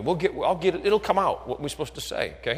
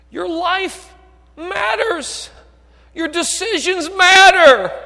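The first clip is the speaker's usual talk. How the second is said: high, loud, building sermon cry; rising to a shouted appeal from the pulpit; full-force preacher; preaching at full force; 13 dB louder, much slower than usual. Acted.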